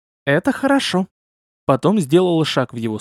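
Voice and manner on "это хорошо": purring. A narrator's reading. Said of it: "промурлыкала демоница".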